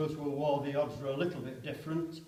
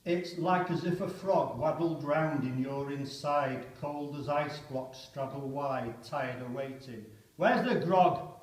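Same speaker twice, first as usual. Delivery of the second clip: poem reading. Acted. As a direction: speak it as a stunned soldier. Poem recited aloud.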